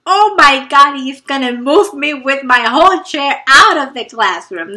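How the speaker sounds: sudden fright as he towers up; panicked. Retold or imitated. Frightened thought as he stands.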